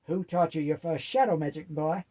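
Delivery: pretend-stern telling-off of her boy; hammed-up indignation, teasing underneath; mock anger. A narrator's reading. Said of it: "said Grams with mock anger".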